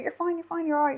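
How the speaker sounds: high, soft soothing quote; hushed, lifted voice, imitating a comforter; retold reassurance. Date helping her after the collapse, retold reassurance. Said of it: "she tried to help me".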